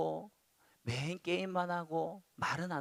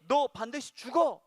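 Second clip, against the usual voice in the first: high, loud pronouncement; firm, forceful acted decree; stern and emphatic; 7 semitones higher, 6 dB louder than usual. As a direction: deliver it as an unmistakable warning. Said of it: "너무나 단호하고 분명하게".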